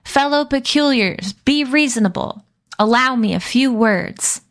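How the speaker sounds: grand public appeal, projected; booming voice. Acted. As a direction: address them like a statesman. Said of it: "called out in a booming voice".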